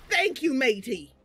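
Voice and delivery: Beast character voice. Acted. Player voices Beast thanking an ally, hearty character voice. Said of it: "Beast says".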